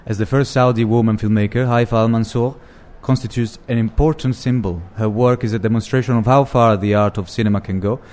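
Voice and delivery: lightly voiced old-time radio announcer; a hint of a vintage broadcast read; 1960s radio voice. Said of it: "the nineteen sixties radio voice on".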